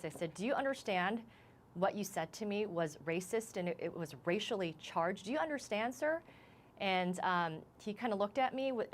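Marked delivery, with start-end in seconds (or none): 0.3-6.2 firm, stern confrontation retold. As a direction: retell it as a stern demand, pitch rising on the question. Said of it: "in a really stern voice".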